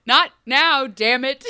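loud frustrated snap; exasperated yell. Pretend. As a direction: shout it, fed up. Parent snapping during emergency.

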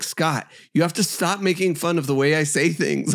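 exasperated retold boss. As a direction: mimic an exasperated boss through laughter. Boss scolding, retold with laughing.

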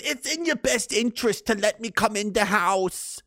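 slow, sly big bad wolf. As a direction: coax them like a wolf at the door. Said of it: "The wolf says".

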